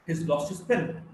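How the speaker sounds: "He's lost his pen" in native rhythm; native sentence stress. Shown as a demonstration. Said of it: "takes the same time as this word".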